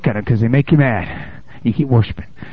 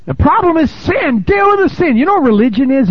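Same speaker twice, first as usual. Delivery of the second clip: preacher hammering the congregation on sin; full-force preaching; 12 semitones higher than usual. Acted. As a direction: drive the point home from the pulpit.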